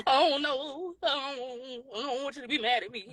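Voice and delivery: mock tearful voice; imitating her crying. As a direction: retell her crying as she pleads. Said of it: "So she started crying".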